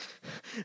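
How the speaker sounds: quick breathy gasps without voice; imitated hyperventilating. Recounting holding back tears in front of bosses, imitated hyperventilation. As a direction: act out hyperventilating. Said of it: "like, I'm hyperventilating".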